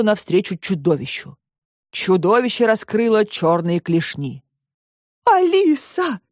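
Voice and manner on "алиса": a high cry of the name from a worried grandmother; бабушка не выдержала. Acted. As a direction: call her name out high, then let it fall. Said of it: "не выдержала бабушка". (высокий встревоженный окрик)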